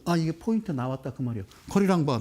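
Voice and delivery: usual speaking voice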